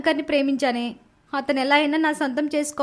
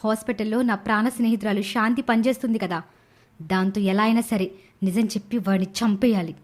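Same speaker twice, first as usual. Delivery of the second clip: lower, menacing scheming voice; scheming thoughts; 4 semitones lower than usual. Acted. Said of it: "లీల తన మనసులో ఇలా అనుకుంటూ".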